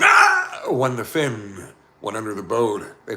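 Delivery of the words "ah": sudden high shriek; Becky lets out a startled scream; frightened yelp; short scream. A narrator's reading. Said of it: "Becky almost screamed again".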